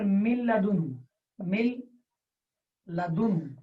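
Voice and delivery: مل لدن said word by word, slow and clear; slow syllable demo. Shown as a demonstration. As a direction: break مل لدن into its parts. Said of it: "میں مثال دوں گا یہاں پر". (مل لدن کو الگ الگ واضح ادا کریں)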